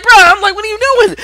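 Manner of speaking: loud, high, indignant bro; loud incredulous retelling; exasperated outburst. Retold or imitated. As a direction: blurt it out in disbelief.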